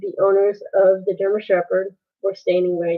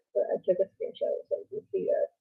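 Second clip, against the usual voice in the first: fast whispered aside; 10 dB quieter, much faster than usual. Real, not acted. Quick aside to viewers.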